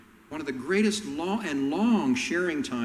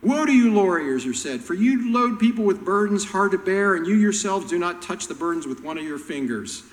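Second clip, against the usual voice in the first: loud, high denunciation; fierce woe; 5 semitones higher, 5 dB louder than usual. Retold or imitated. Jesus denouncing the lawyers, loud and high. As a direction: thunder it at them. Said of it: "That's what Jesus".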